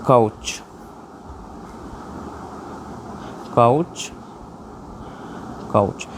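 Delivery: drawn-out काउच with the ou glide clear; slow spoken model word. Shown as a demonstration. Teacher modelling the word couch for students, slow and clear. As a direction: say couch slowly and clearly, three times. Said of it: "तो ये हुआ हमारा काउच".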